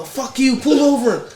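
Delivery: high mock yell at the redneck; yelling out the window. Driver yelling at the redneck in a joke, high mock yell. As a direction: shout it through the car window. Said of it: "the guy yells out the window".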